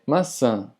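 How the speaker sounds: maçã with a nasal final vowel; sonido nasal. Shown as a demonstration. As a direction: let the ã of maçã ring through the nose. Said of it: "indica un sonido nasal". (maçã con «ã» nasal)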